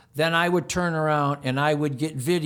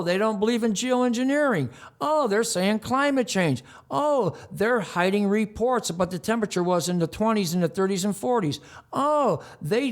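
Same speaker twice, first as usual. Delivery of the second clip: scornful mock list; 4 semitones higher than usual. Real, not acted. Mocking list of opponents' views.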